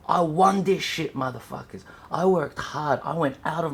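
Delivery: proud shout. Real, not acted. Showing off his trophy.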